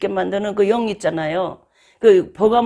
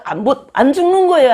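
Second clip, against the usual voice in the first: laughing; 7 semitones higher, 6 dB louder than usual. Real, not acted. Laughs at stubborn sinner.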